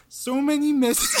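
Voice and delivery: high, cracking with laughter; breaking up mid mock-sob; laughing through mock crying. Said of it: "read it like crying Peterson".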